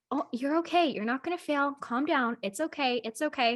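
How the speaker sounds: mildly imitated calming partner; reassuring. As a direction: gently talk someone down. Partner calming her down in retelling.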